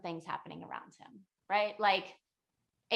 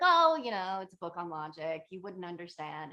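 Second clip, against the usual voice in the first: condescending; 3 semitones lower than usual. Retold or imitated. Arrogant scholar to old woman about his logic book, condescending. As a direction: brush her off with mock superiority. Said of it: "kinda shitty to her".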